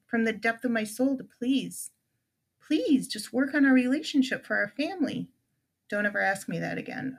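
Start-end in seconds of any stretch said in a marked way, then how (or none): 5.9-7.2 deadpan. Retold or imitated. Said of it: "deadpan, no emotion voice".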